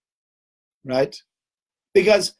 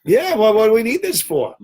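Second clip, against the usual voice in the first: higher and louder, scoffing; mock indignant protest; 8 semitones higher, 6 dB louder than usual. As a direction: push back in disbelief. Household objecting.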